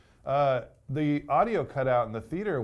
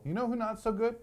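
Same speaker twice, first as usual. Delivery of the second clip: mock-serious setup; 10 semitones higher than usual. Joking setup about the ship.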